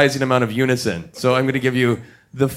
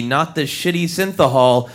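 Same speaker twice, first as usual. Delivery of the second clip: ordinary delivery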